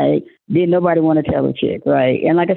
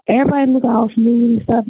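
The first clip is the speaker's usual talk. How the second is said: hushed conspiratorial whisper; whispered aside; 7 semitones higher than usual. Real, not acted. Telling a friend about smooth partygoers, in a whisper. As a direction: lean in and whisper it.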